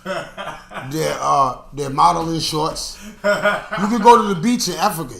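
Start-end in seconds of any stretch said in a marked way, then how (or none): 0.0-3.0 laughing through the words, slowed down and soft. Real, not acted. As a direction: lose it while you explain. Laughing while explaining the shorts.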